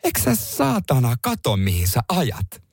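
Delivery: a mild mock of an angry father cursing; lightly voiced irate dad scolding; imitating angry dad. Son imitates his father scolding him over the pothole, a light mock angry dad. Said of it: "mä koitan imitoida häntä".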